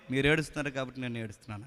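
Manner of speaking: gentle God's reply. Retold or imitated. God's reply voiced softly.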